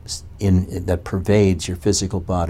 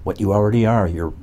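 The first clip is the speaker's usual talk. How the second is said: mocking the Neo-Advaitins; 3 semitones higher than usual. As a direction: parrot their easy answer mockingly. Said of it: "the Neo-Advaitins say".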